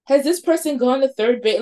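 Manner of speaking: mock teenage curiosity, a bit cheeky; silly teen question. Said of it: "like, the silly teenage questions".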